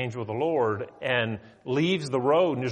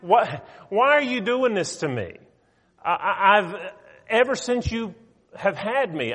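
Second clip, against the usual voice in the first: wounded, pleading donkey voice, higher and louder; the hurt donkey protesting to its master, pitched up; donkey pleading with Balaam, high and loud; talking donkey; 5 semitones higher, 4 dB louder than usual. Acted. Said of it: "that donkey turning around looking at him and said".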